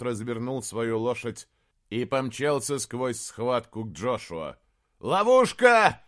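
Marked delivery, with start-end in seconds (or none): 5.0-6.0 loud, high, slow alarm cry; warning shout. Acted. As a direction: scream the warning. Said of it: "закричал он". (крик тревоги)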